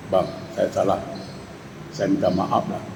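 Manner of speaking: soft imitated wife pleading for forgiveness; wife pleading softly. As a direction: beg quietly like a contrite wife. Wife apologises to husband.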